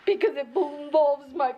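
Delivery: laugh-crying. Acted. Laugh-crying about family.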